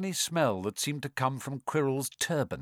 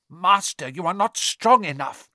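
anxious servant; 4 semitones higher, 6 dB louder than usual. A narrator's reading. Servant pleads with his master.

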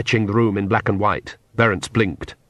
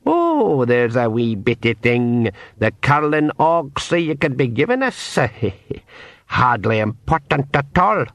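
sly pixie; 2 semitones higher than usual. Acted. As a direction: slip in a sly little request. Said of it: "he said".

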